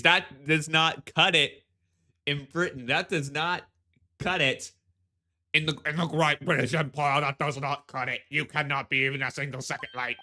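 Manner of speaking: put-on stiff British accent scolding lateness; stern British. British official scolding the late visitors in a stern British accent. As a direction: lay down the rule in British tones. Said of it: "pretentious British voice".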